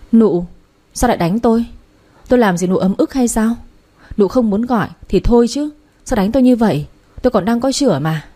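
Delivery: a put-on wail of the wronged; mock outcry. Scheming concubine fakes being slapped, cries out to mother-in-law. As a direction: cry out as if struck, playing the victim. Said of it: "rồi gào lên".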